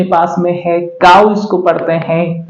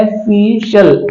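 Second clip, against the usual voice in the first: slowed-down ऑफिशियल, falling; slow clear model; slower than usual. Shown as a demonstration. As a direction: say ऑफिशियल slowly as "uh-FISH-ul". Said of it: "इसको पढ़ा जाता है ऑफिशियल".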